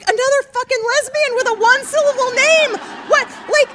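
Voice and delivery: loud, high, fast incredulous rant; comic disbelief at yet another short name, shouted; exasperated outburst. Retold or imitated. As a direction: blurt out mock outrage. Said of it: "I'm like".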